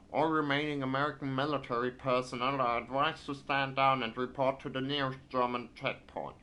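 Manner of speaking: put-on thick American accent. Gamer reading occupation news aloud, thick American accent. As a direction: read the decree in a heavy American accent. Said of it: "has a very thick American accent".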